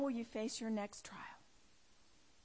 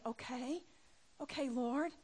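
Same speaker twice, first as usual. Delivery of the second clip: mildly timid, softly questioning agreement; 4 dB quieter than usual. Acted. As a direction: agree hesitantly, lightly acting out timidity. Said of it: "you said very timidly".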